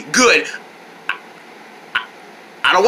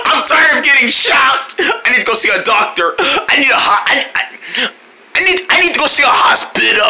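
higher, hammed-up complaint; mock distressed cry; 5 semitones higher than usual. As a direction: play at being hurt and fed up. Acted victim of repeated shocks.

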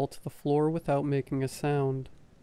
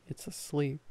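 hushed whisper; 6 dB quieter than usual. A narrator's reading. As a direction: breathe it out under the breath. Repeated hushed warning.

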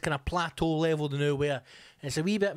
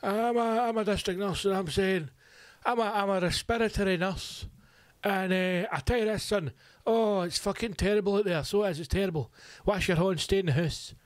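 higher put-on voice of a preachy nurse; mocking nurse; 5 semitones higher than usual. Comic imitating a nurse lecturing him, in a high put-on voice. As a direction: send up a self-important nurse, pitched up. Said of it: "twelve of them talking to me".

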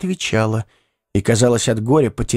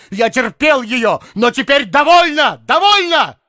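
furious shout; 11 semitones higher than usual. A narrator's reading. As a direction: scream Довольно at the top. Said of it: "стукнул тростью по полу и крикнул". (крик в ярости)

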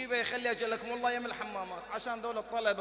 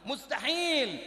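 "مستحيل" shouted high and hard, falling at the end; 6 semitones higher, much slower than usual. Acted. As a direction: slam down "مستحيل" as a final ruling. Shouted verdict in sermon.

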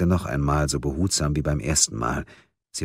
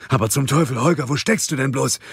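high, agitated scolding; exasperated colleague; 9 semitones higher, 3 dB louder than usual. A narrator's reading. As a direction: demand an explanation down the phone. Ludwig exasperated with missing Munk. (aufgebracht, mit hoher Stimme)

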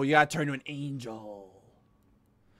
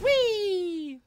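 excited; 5 dB louder than usual. Pretend. Playful cheer as robot girl.

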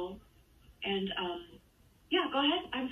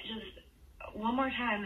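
drawn-out request; much slower than usual. Pretend. Prankster asks caller to repeat.

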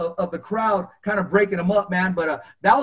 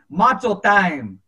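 put-on slow, drawn-out taunt in a Mexican Spanish accent; much slower than usual. Chavez walks in taunting the rival fighter, slow Mexican Spanish accent. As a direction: stretch each word out in a Mexican Spanish accent, teasing. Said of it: "with his accent".

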